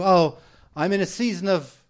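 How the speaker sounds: imitating a weighed-down sigh of transition; heavy, weary tone. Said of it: "the way they say it is this".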